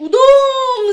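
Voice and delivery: উদম সে কিছু বলি bursts out loud and high, drawn out; exploding yell. Shown as a demonstration. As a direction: blurt it out like you're about to lose it. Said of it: "তোরে মনে হয়".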